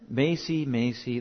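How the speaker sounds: soft mild reproof, second name dropping; mock-gentle correction by name alone; gentle repeated name. Shown as a demonstration. Owner gently correcting the dog, not yelling. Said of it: "Don't yell, just say their name twice".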